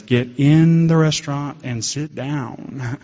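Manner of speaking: slow commanding inner voice; slow, like his own head giving orders. Retold or imitated. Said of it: "my head says".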